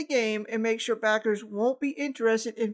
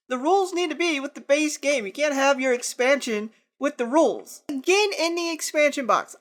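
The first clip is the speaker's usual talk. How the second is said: angry rant; 3 semitones higher, 4 dB louder than usual. Real, not acted. Ranting about rules in expansion.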